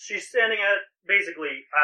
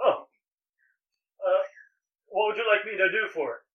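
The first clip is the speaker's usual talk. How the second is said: put-on young, youthful elven male voice; 4 semitones higher than usual. Voicing a young elven male who greets a customer: young elven male voice. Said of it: "and he goes".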